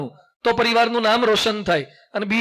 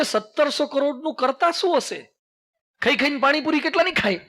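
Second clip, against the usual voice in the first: lightly imitated puzzled boy, pitched higher; mock wonderment; 4 semitones higher than usual. Boy asking what one does with such money, mock-puzzled. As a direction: wonder aloud like a baffled boy.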